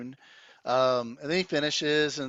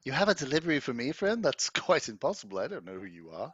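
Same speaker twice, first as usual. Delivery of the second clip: lilting, swooping pitch as the bard; 2 semitones higher than usual. Acted. Bard denies knowing the messenger, lilting bard voice. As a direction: play a puzzled travelling musician.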